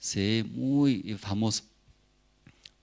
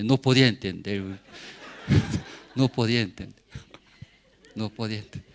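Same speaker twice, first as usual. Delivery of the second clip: laughing disbelief; 3 semitones lower, faster than usual. Real, not acted. Telling friends about his fame, laughing in disbelief. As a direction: laugh it off in wonder.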